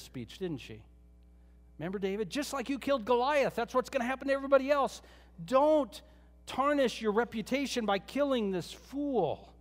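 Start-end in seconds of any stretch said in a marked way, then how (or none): 2.3-9.5 urgent plea. Retold or imitated. Abigail pleading urgently with David.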